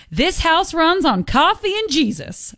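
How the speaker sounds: hammed-up Southern drawl on a welcome mat; Southern accent. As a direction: read it like a Southern porch sign. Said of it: "in a Southern accent".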